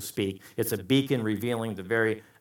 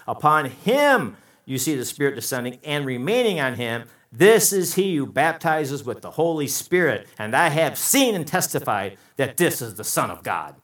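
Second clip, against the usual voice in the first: forceful scripture reading; 3 semitones higher, 6 dB louder than usual. Real, not acted. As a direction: proclaim the verse.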